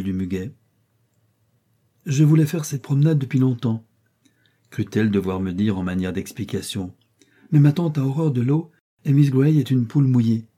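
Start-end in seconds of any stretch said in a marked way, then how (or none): 2.1-3.9 haughty princess. Acted. Princess giving orders to the man she takes for a boatman, haughty. 7.5-10.5 put-on higher, louder commanding young lady; haughty princess. Princess giving orders to the man she takes for a boatman, haughty. Princess complains of her aunt.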